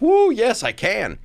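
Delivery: high, loud whoop into a yes; eager yes. Retold or imitated. Comic offered a stage spot, whooping an eager yes. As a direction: jump at it excitedly.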